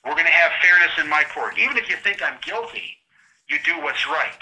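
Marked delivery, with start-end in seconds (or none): 0.0-1.6 firm judge. Retold or imitated. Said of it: "Any judge should have said".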